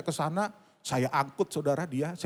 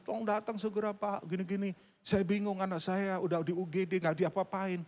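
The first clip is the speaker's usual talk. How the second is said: higher, softened mock-weepy plea; imitated tearful plea; 5 semitones higher, 4 dB quieter than usual. Mother begging pastor to come to hospital, imitated tearful plea. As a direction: imitate a mother pleading through tears. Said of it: "ambil nangis-nangis".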